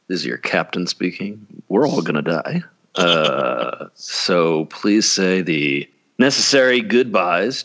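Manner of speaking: calm captain over the intercom, hammed up; deadpan airline captain announcement; mock pilot announcement. Mock pilot announcement, plane crashing.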